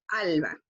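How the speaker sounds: "alma" with a leaned-on first A, falling low; stress on AL. Shown as a demonstration. Teacher shows where the word is marked, stressing AL in "alma". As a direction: press the AL of "alma", then let it drop. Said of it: "Se marca en la A".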